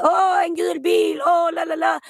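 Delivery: sing-song airhead impression; distracted dreamer. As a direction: drift off mid-task, lightly mocking yourself. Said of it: "den här memen".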